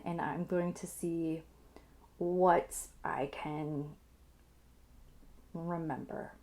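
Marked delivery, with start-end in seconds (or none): 2.2-6.3 whispering. Real, not acted. Thinking aloud while recalling the photo.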